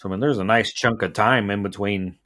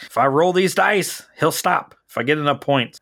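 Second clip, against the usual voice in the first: put-on higher, pleading kid voice; a hopeful boy bargaining with his dice; imitating Tommy; 5 semitones higher than usual. Tommy hoping the dice stop Michael, higher pleading. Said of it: "He's like".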